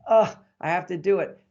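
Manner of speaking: mock groan of reluctance; groan, then give in grudgingly; lightly acted grumbling husband; male grumble. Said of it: "That's male grumbles".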